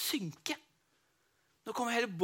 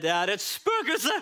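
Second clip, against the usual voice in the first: slow, loud ghost alarm; scared fisherman pointing at the light; frightened cry; 3 semitones higher, 4 dB louder, much slower than usual. Acted. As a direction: spot the ghost and gasp it out. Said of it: "Så jeg ble jo enda reddere".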